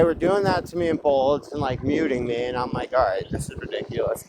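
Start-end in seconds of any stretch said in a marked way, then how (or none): 2.9-4.2 whispered aside. Retold or imitated. Retold inner thought.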